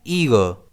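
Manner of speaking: ईगर said as EE-ger, stress on the first sound; careful teacher pronunciation; pronunciation demo. Shown as a demonstration. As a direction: model ईगर clearly. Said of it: "pronounce कैसे करते हैं".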